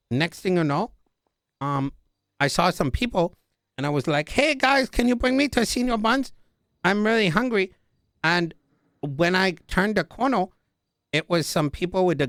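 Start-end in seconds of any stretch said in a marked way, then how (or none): 4.3-7.7 higher, eager asking for a lift; high pleading voice. Retold or imitated. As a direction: sound like a hungry kid begging. Begging strangers for a ride.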